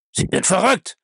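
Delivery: high-pitched shocked outburst; exclaiming. A narrator's reading. Bellamy jumps up cursing at the news, exclaiming. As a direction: cry it out in disbelief. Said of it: "rief er".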